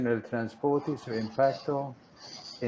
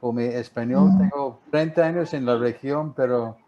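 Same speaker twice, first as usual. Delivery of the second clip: Spanish with an American accent; American English speaker's Spanish; gringo accent spanish. Real, not acted. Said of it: "sigo hablando como gringo". (español con acento gringo)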